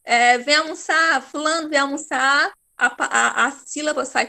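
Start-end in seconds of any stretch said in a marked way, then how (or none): 0.4-2.5 mild demonstration of calling someone to lunch. Shown as a demonstration. Teacher pretending to call someone to lunch, calling out. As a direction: call them to the table, lightly raised voice. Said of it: "Qualquer palavra que você for gritar".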